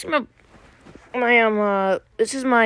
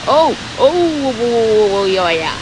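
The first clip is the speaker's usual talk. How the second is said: excited; 2 semitones higher, 4 dB louder than usual. Real, not acted. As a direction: react to the near miss, thrilled. Watching a close plane pass.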